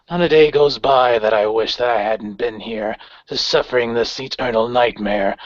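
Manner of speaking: measured, cold villain voice; lightly voiced commander threatening politely; understated menace from a ghostly leader; calm menacing leader. GM voices Geist again.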